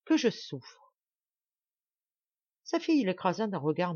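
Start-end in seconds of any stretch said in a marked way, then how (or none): 0.0-0.9 higher, plaintive complaint; pained, self-pitying whine; whining. A narrator's reading. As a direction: moan about your suffering. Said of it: "geignait-il".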